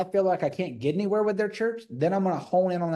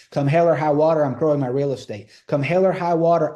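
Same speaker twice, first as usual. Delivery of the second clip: rallying declaration; 6 dB louder than usual. Acted. Acting out a rallying sales pitch.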